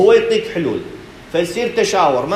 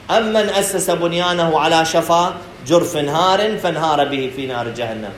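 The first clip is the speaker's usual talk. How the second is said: Quranic recitation. Acted. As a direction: recite the verse deliberately, letting it fall at the end.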